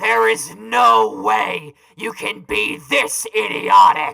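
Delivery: slow, furious exasperated yell; angry shout. Acted. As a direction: blow up at how dumb he is. Exasperated insult at partner.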